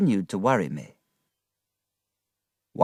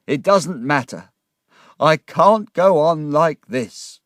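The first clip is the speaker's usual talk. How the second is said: loud, high-pitched despairing confession; distraught, tearful outburst; shouting and crying; 6 semitones higher, 6 dB louder than usual. Acted. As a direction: pour it out in distress, dragging the bitterest phrases. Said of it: "was shouting and crying now".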